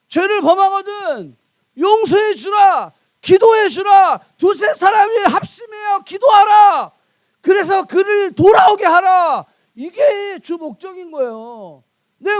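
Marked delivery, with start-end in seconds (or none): 1.8-9.4 loud, raised preaching voice; high, ringing imperatives; forceful exhortation. Real, not acted. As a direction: drive each command home to the congregation. Preacher drives home the commands.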